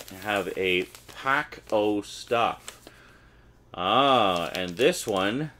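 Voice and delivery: a light, hammed-up Scottish accent; bad Scottish accent. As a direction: fake a clumsy Scottish accent. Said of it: "cringing at my horrible accent".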